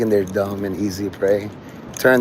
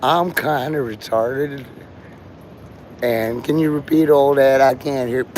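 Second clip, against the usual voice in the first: put-on slow-talking girl. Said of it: "She talks very slow".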